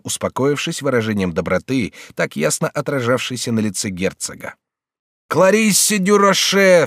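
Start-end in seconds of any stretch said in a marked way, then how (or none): 5.3-6.8 slow, higher and louder cry of recognition; exclaimed. A narrator's reading. The regent reads the address and cries out in surprise. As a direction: cry the name out, drawing it long. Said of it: "вскричал регент".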